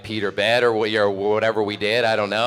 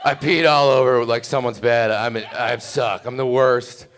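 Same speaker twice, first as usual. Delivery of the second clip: mock sad confession; 2 semitones higher, 3 dB louder than usual. A drunk guy confessing to the girl, hammed-up sad whine. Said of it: "sad version of what happened".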